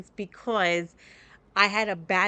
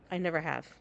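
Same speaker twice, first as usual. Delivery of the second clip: usual speaking voice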